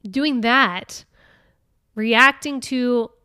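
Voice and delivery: normal talking voice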